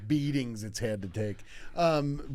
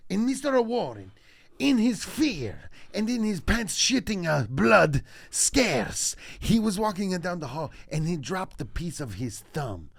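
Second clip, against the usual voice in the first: put-on Italian storyteller accent; sad Italian; 4 semitones higher, slower than usual. Comic telling a boyhood detention story, mock Italian accent. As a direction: melodramatic Italian accent with extra vowels between words.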